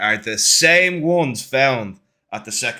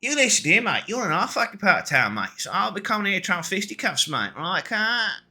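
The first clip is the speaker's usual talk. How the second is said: higher, swaggering street threat; threatening hustler; 7 semitones higher than usual. Acted. Seller to the party, menacing and cocky. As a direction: square up and warn him off. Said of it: "and he goes".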